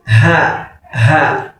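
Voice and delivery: "ha" with a breathy onset; slow, separate "ha" as a model; ha pronunciation demo. Shown as a demonstration. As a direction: let air lead into each "ha". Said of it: "it comes from the heart".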